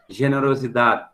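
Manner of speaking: "generosidade" said as Spanish generosidad, with no final vowel; Spanish pronunciation. Shown as a demonstration. Teacher giving students the Spanish word, Spanish pronunciation. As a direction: say "generosidade" the Spanish way, clipping the end. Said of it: "no espanhol".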